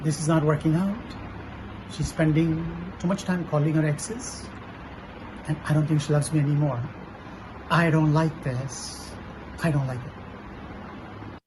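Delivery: upset. Acted. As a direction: let the frustration out. Role play, upset boyfriend.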